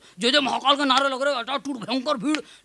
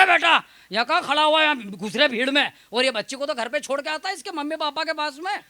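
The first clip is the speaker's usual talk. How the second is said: put-on mildly raised, scolding old-timer's yell; scolding shout; 3 semitones higher than usual. Elder scolding a man carrying a child into the crowd, mock shout. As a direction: call out in mock reproach, pitched slightly up. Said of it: "जोर से चिल्लाए".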